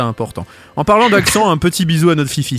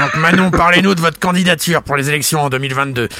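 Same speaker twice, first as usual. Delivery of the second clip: Jean-Jacques Bourdin. Retold or imitated. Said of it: "j'ai pris la voix grave de Jean-Jacques Bourdin".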